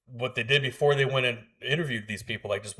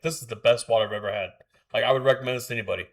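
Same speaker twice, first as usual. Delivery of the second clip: gushing water snob; faster than usual. Retold or imitated. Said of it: "like a water connoisseur".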